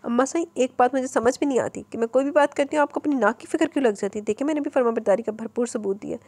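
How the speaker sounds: mildly stubborn, insisting; a touch of childish obstinacy. Acted. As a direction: dig in your heels, lightly. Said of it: "ज़िद्दी लहजे में बोली".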